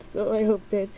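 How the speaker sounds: choked-up, high crying voice; breaking into tears. Real, not acted. Breaks down over gift for dad.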